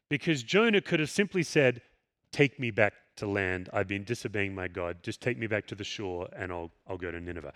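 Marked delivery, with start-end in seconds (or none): 2.3-7.5 meek quiet plea. Retold or imitated. What Jonah could have said.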